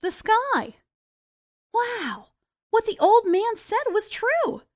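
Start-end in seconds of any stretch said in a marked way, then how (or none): 1.7-4.6 put-on higher, mildly excited boy; a touch of wonder at the sky; exclaimed. Jack reaches the clouds and cries out, mild excitement. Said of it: "Jack exclaimed".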